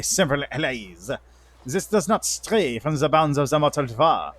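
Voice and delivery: put-on angel lord with a light French accent; stately angel in a mock French accent; hint of French in an ancient angel. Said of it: "That, that would be the French".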